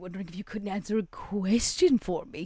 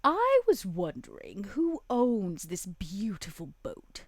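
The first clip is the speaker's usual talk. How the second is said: syrupy flattery; slower than usual. Acted. Vera flattering the guard.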